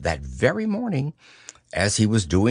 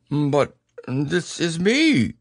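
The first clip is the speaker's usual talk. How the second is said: surprised; 6 semitones higher, slower than usual. A narrator's reading. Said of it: "very much surprised".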